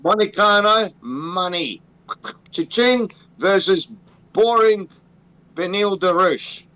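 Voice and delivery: slow mock ring announcement; bill the fight like an announcer; announcer intro. Host introduces the fight matchup in a slow mock-announcer voice. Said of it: "so that's my introduction".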